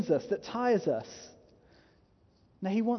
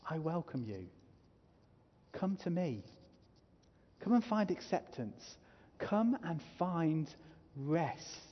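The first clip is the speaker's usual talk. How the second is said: gentle invitation; 5 dB quieter than usual. Acted. Voicing Jesus's gentle invitation.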